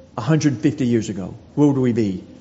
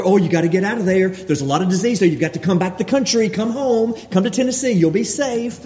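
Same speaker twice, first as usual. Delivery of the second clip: worried friends pleading; 4 semitones higher, faster than usual. Retold or imitated. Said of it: "they're worried about".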